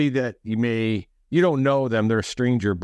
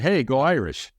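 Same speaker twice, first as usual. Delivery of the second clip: fuller, more upbeat passing cheer; livelier greeting; 3 semitones higher than usual. Retold or imitated. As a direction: imitate a fan greeting back with some spirit. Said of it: "But he's like".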